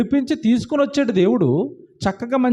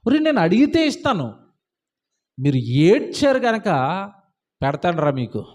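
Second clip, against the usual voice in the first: God's mild anger; 3 semitones lower than usual. Acted. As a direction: voice an angered God warning His people. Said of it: "దేవుడికి ఎంత కోపం వచ్చిందో".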